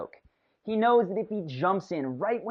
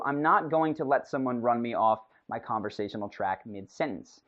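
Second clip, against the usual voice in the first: ordinary talk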